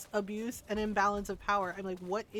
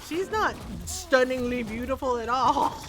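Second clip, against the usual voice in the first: slow, loud emphatic complaint; mock indignation; 5 dB louder, slower than usual. Player cheated by Mystra's looks, slow mock indignation. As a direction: draw it out, hammed-up disbelief. Acted disappointment at seeing Mystra.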